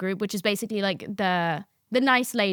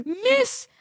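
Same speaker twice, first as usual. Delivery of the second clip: much higher breathless "Miss" then slow insult; pretend outburst; 5 semitones higher, slower than usual. Student snitches to passing teacher, high then blunt. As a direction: blurt it out to the teacher. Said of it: "That's not what I said".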